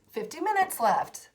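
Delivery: loud, high mock despair at the clock. Reviewer re-enacting checking the time, loud mock despair. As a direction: wail it like the clock betrayed you. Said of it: "and it'd be like".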